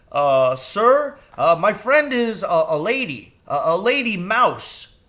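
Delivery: high stammering crow; hesitant bird explaining; nervous crow. Acted.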